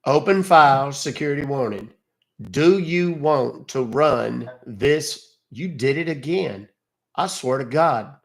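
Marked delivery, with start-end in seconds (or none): 0.1-1.9 slow reading aloud. Real, not acted. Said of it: "what do you see, sir?". 2.5-5.4 slow reading aloud. Shown as a demonstration. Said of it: "what do you see, sir?".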